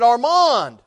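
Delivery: mild mock yell into the rubble; retold scream. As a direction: call out the boy's name. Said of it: "he screamed".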